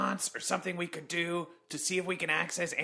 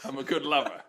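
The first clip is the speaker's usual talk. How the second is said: Mae West voice. Pretend. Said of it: "you sound like Mae West now".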